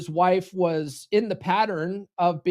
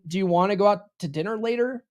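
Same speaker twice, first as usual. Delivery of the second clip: tentative asking tone; asking permission; faster than usual. Shown as a demonstration. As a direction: ask it hoping for approval. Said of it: "So instead of saying".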